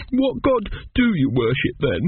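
put-on high, slow child's question; curious small boy. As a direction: ask in an earnest little-boy voice. Arthur questions Teppic.

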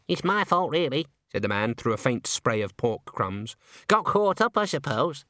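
lightly voiced shy squeaky man. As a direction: mumble it shyly. Henry Slug's voice.

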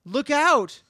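high, loud warning cry; calling out. Acted. Squirrel to the gnome below, calling out a warning. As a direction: holler it out as a warning. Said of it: "he calls out".

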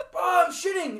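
high, loud laughing whine; retelling a bathroom emergency, laughing. Retold or imitated. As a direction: laugh through the desperate plea. Retelling himself in the toilet.

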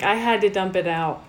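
lightly imitated Minnesotan accent; a hint of cute Minnesotan. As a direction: quote her with a slight Minnesotan lilt. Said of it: "in her little cute little Minnesotan accent".

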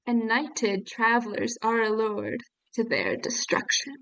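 slow, deliberate verse reading; poem recitation. Acted. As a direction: read the old verse out with measured pacing. Reads poem aloud.

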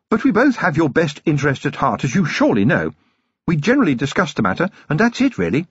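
a fond, well-bred wife; Lady Sybil, genteel lady. Acted. Wife cutting in on her husband, refined lady.

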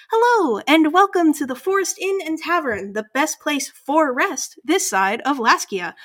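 put-on high, bright-pitched old owl woman greeting guests; owl innkeeper. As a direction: sing out a fluttery innkeeper welcome, pitched well up. GM voices owlin innkeeper.

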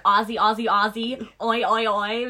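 light mock-American chant, "Aussie" as "AH-zee"; American accent. American YouTubers leading an Australian crowd, mock American accent. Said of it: "because they're American".

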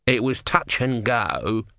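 slow, grudging tortoise voice; testy little god; grumpy tortoise god. Acted. Tortoise speaks.

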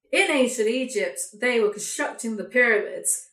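a mock voiceover with a forced laugh breaking in; fake laugh narration. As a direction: ham up the phony essay-narrator chuckle, slowing down. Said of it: "when they put in the fake laugh".

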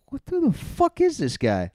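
high, drawn-out imitation of baffled onlookers; slow, high-pitched mock disbelief; mock bafflement. Everyone reacting to the bombing comic, mock bafflement.

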